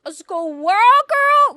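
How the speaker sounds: huge drawn-out yell of ridicule, high and loud; mocking Deadpool shout. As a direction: howl it slowly in mock disbelief. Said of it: "And then Deadpool's like".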